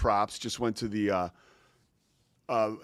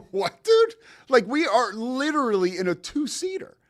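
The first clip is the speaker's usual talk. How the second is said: high-pitched mock disbelief; acting out baffled pals, pitched way up; incredulous; 11 semitones higher than usual. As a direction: imitate two friends' stunned objection. Both friends react to his request.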